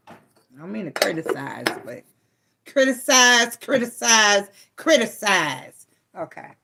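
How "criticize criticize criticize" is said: silly repetition. Pretend. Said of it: "let me quit being silly".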